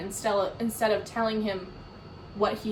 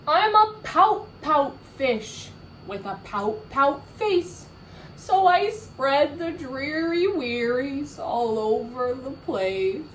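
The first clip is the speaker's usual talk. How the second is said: louder moping chant; pouty refrain; 3 semitones higher, 3 dB louder than usual. Shown as a demonstration. Reader chanting with children, louder and mopey. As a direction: mope the refrain again. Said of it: "let's say it again".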